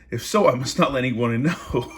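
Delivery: words bursting into laughter; can't hold the laugh in; real giggles breaking the line; laughing through it. Real, not acted. Reader cracks up mid-quote.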